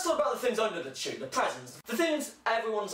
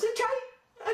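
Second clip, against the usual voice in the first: mock sarcastic; 13 semitones higher than usual. Grumpy reply acted.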